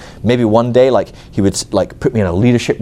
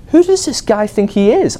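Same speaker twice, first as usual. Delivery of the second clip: higher, slow, offended outburst; indignant outrage; 11 semitones higher, slower than usual. Retold or imitated. Snubbed churchgoer fuming at the pastor, slow and high. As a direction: spit out the insult to your pride.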